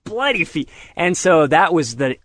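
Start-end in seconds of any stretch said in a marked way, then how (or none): 0.0-0.7 a sudden high yelp of alarm, then a slower wince; mock panicked medic. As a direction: play the medic who just hit the broken feet, jumping up high. Medics bump his broken feet.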